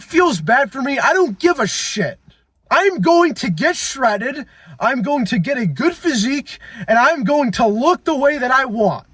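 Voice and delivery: high, drawn-out angry vow; retold yelling. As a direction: relive the fury and swear to change. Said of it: "I'm yelling because I'm remembering".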